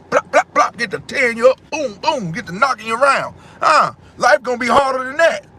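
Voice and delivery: preacher-style shouting with mock punch sounds; heated yelling. Real, not acted. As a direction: hit them with life's blows, yelling. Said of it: "me yelling on here".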